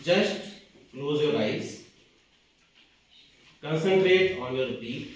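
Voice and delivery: lightly meditative, with long pauses between instructions; guided meditation. Acted. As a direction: guide listeners into watching the breath, unhurried. Leads a breathing meditation. (ध्यान कराते हुए, ठहर-ठहर कर)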